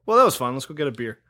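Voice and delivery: imitated casual shrug; nonchalant. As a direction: toss it off, dropping away at the end. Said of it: "Like, very nonchalant".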